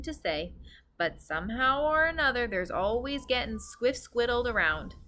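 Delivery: lightly voiced giant, earnest; a hint of a big friendly giant; gentle giant voice.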